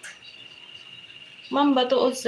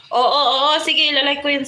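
loud, emphatic yes yes yes; mock-cross burst of agreement; half-joking angry-sounding yes; sounds angry; 3 semitones higher, 5 dB louder than usual. Real, not acted. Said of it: "Parang galit eh".

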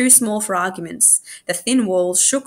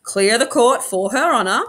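mock announcement; 3 semitones higher, 4 dB louder than usual. A narrator's reading. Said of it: "said Tim".

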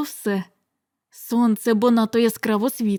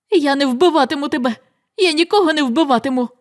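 fast, raised protest; shouting; 2 semitones higher, 3 dB louder, faster than usual. Acted. Son refusing to kill, mild shout. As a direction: hurl the refusal at him. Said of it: "кричав він".

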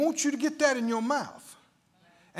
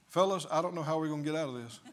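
mock defeated Jesus; 5 semitones lower, 4 dB quieter, much faster than usual. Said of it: "hear Jesus say".

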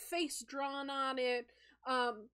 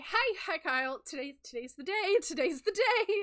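nervous high voice; 4 semitones higher, 6 dB louder than usual. Acted. Sky nervous greeting.

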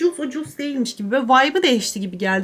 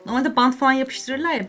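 ordinary talk, nothing marked

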